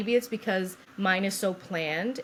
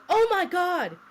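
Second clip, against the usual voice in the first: high, louder cry of alarm; gasp-like mock astonishment, pitched way up; retold shock; 12 semitones higher, 5 dB louder, slower than usual. Nurse discovers the baby is coming.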